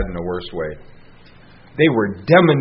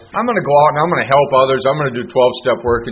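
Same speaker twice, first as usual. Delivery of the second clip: fast, louder, fired-up resolve; a newcomer bursting to help others; eager newcomer; 3 semitones higher, 4 dB louder, faster than usual. Retold or imitated. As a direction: rattle it off like a keen beginner. Newcomer voicing his eager decision.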